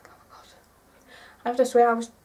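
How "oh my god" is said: breathless whispered gasp of disbelief; silent scream. Retold or imitated. Whispering at 4am so her sleeping dad won't wake. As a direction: mouth a scream without sound. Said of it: "I silently screamed".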